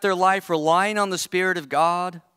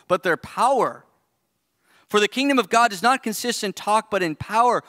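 firm, raised, stern reading of the rebuke; admonishing tone; 3 semitones higher, 3 dB louder than usual. Retold or imitated. Preacher reads Paul's warning to the arrogant Corinthians, stern and raised. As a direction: scold them like a father who means it. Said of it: "his tone here".

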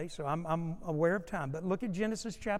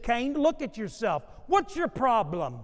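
slightly raised challenging question; a hint of God scolding; 4 semitones higher, 6 dB louder than usual. God presses Cain, mildly raised. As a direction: press him a little.

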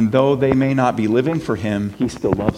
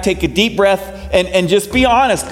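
usual speaking voice

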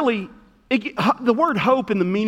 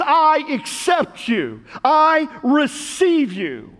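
gentle voice of God; 5 semitones higher, much slower than usual. Acted. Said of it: "He says".

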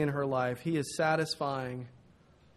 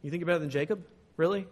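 mock-skeptical challenge, pausing before a raised "Really?"; sarcastic; faster than usual. Woman at the well doubting Jesus, sarcastic. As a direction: voice a mildly scoffing doubter. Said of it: "Sort of this sarcastic".

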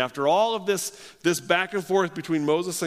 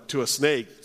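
normal talking voice

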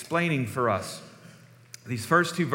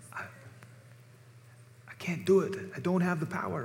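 Scotty's Scottish protest; 5 semitones higher, 6 dB quieter, faster than usual. Retold or imitated. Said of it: "what does he always say?".

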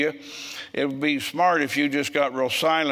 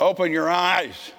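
drawn-out, raised-pitch order to a woman; retold sharp command; 5 semitones higher, slower than usual. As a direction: re-enact calling to someone to snap out of it. Retold shaking of crying woman.

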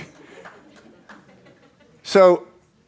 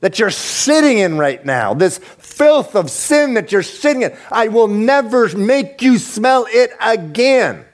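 pleading voice of Jesus; 5 semitones higher than usual. Retold or imitated. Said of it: "He says".

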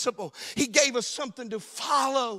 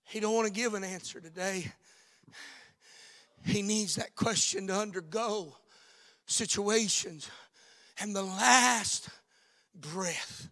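hushed preaching; 3 semitones lower, 6 dB quieter than usual. Acted. Pastor quietly drawing listeners to the cross, hushed. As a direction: pull them in close with a hush.

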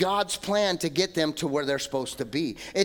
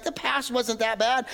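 higher, wistful, dreamy sigh on "The past wasn't that bad."; mock nostalgia; 4 semitones higher than usual. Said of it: "we reminisce, like".

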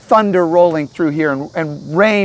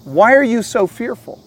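higher-pitched, pointed challenge; challenging rebuke; 6 semitones higher, 4 dB louder than usual. Acted. Jesus waking to challenge his disciples, rebuking. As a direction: rebuke them with a raised, incredulous question. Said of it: "It's a rebuke".

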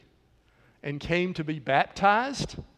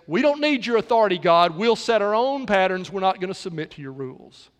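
rebellious world; 4 dB louder than usual. Retold or imitated. Preacher voicing the world defying God, quick and raised. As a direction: toss it off fast like a rebel shouting up at heaven. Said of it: "a rebellious world that says".

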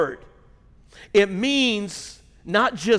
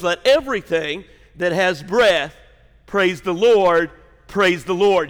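rising proclamation; 4 dB louder than usual. Acted. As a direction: proclaim it, swelling at the end. Reads the psalm's close.

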